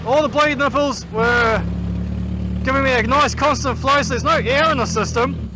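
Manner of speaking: muffled inside a race helmet; talking through a closed helmet. Real, not acted. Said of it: "so I can talk to you properly".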